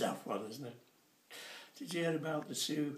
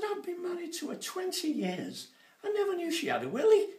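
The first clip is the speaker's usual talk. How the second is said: much higher, louder, fast outburst; punchline shout; 8 dB louder than usual. Retold or imitated. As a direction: blurt it out in shocked disbelief.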